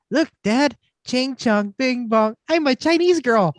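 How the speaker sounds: little daughter voice. Retold or imitated. Quoting his young daughter at Universal, lightly childlike. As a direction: play the giggly six-year-old. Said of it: "she goes".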